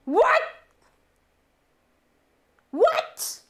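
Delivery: stunned what. Real, not acted. Stunned by gifted subs.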